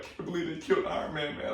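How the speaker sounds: put-on high, teary kid in the theater; high blubbering fan over Iron Man; wailing kid. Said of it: "He was just like".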